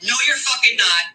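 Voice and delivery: lightly mimicked retort; mock someone's way of talking, a touch; a hint of imitation in the denial; a pop singer. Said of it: "let me say it like a fucking pop singer".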